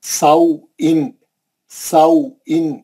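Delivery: سو ان drawn out very slowly; teacher spells out a leen letter; slow spelling out. Shown as a demonstration. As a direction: sound out سو ان slowly as a drill. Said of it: "کیا ہے یہ".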